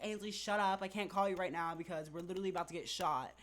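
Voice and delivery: telling a friend off mid-panic, fast and urgent; urgent hushed-loud reply. Retold or imitated. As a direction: rush it out, scared and impatient. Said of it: "And I was like".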